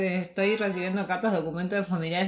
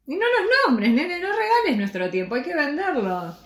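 shrill scolding; 9 semitones higher, 4 dB louder than usual. Acted. Scolding partner, high pushy voice.

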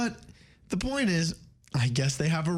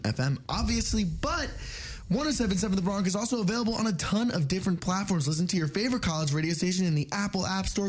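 lively, slightly raised station-promo delivery; radio announcer read; 3 semitones higher than usual. Real, not acted. Host sending listeners to underwriting announcements, radio announcer read. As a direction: read it like an upbeat on-air station plug.

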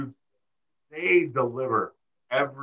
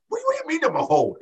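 much higher, very fast panicked squeal; frantic woman; much faster than usual. Retold or imitated. Candace on the phone with the cops, in a frantic high squeal. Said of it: "She goes".

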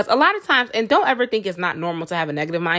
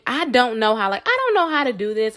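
whiny defeat; 3 semitones higher than usual. Shown as a demonstration. Vlogger mocking the negative self-talk, whiny. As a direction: sound defeated and helpless. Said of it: "instead of saying".

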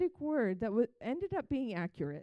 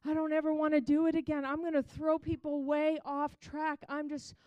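loud, high, fast despairing cry to God; a young woman wailing her complaint to God; anguished prayer; 4 semitones higher, 4 dB louder than usual. Retold or imitated. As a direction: throw the prayer up in loud desperation. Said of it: "one side of my conversation with God".

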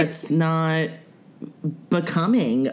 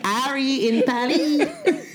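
playful; 9 semitones higher than usual. Real, not acted. Playful slow pun.

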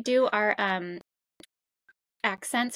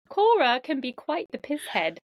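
American's mock British reading; playful British insults in a borrowed accent; put-on British accent. American reading teasing lines about her co-hosts, put-on British accent. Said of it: "talk like a British person".

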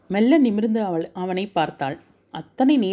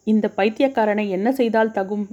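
inner fury; 3 semitones higher than usual. Acted. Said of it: "ஆத்திரத்துடன்".

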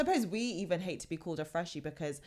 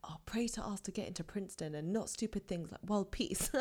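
mock mum quote, whispered; mum's whisper; 3 semitones higher, 3 dB quieter than usual. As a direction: hush it like a mum's aside. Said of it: "her mum's like".

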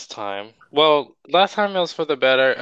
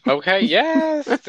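drawn-out sassy okay; 13 semitones higher, 3 dB louder, much slower than usual. Real, not acted. Playful hype reply.

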